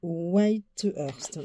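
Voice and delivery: English names in a French accent; French-accented, halting attempt at English names; real French accent. Real, not acted. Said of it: "excusez vraiment mon accent, ma prononciation".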